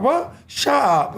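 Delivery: high mock incredulous cry; retold disbelief.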